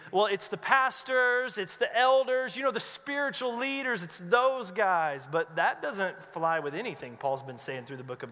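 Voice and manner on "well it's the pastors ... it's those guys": slow, higher "it's the pastors"; a hint of someone dodging responsibility; mock excuse. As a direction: pass the job off onto the leaders. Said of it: "our inclination could be".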